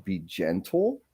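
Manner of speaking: be gentle, said slowly and softly; gentle quote. Retold or imitated. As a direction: hand the advice over softly, slowing down. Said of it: "when Philip made that comment of".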